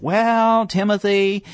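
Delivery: lilting gravelly preacher's drawl. Retold or imitated. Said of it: "I'm trying to sound like him".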